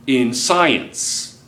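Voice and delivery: usual speaking voice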